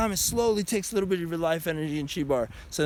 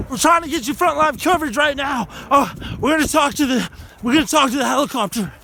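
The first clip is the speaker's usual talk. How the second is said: mock news reporter; 5 semitones higher, 5 dB louder, faster than usual.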